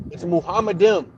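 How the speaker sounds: "Muhammadim" said fluently as moo-HAH-muh-dim; corrective pronunciation. Shown as a demonstration. Debater correcting a butchered word, "Muhammadim" in one smooth run. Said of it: "you're butchering it when you try".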